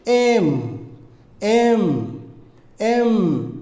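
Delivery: "এম" with lips closed, air out through the nose; nasal M sound. Shown as a demonstration. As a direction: hum the end of "এম" long through the nose. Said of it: "নাক দিয়ে বাতাস বের করে ফেলুন". ("এম" ঠোঁট মিশিয়ে নাক দিয়ে টেনে)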